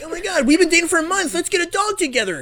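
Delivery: high, hammed-up couple excitement; mock gushing. Host mocks a month-old couple planning, gushing. Mocking a new couple's rash enthusiasm.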